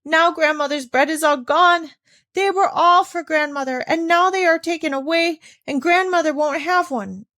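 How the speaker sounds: a hint of sobbing, high and plaintive; child mildly sobbing over the lost rolls. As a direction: wail through mild tears. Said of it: "sobbing out at intervals".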